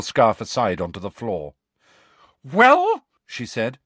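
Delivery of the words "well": loud, high, rising challenge; sharp rise of outrage; angry demand. Acted. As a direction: demand an answer, livid. Livid professor demands an answer.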